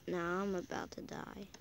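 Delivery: whispered. Real, not acted. About to die in game.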